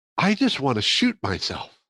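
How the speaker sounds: hushed, quiet whisper. Retelling what was said to a bored neighbour at a luncheon: retelling a whisper. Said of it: "I whispered to him".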